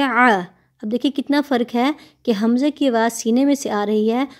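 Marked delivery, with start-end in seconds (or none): 0.0-0.4 आ squeezed from the throat; throaty ain आ; ain sound. Shown as a demonstration. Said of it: "आइन की आवाज़ होती है".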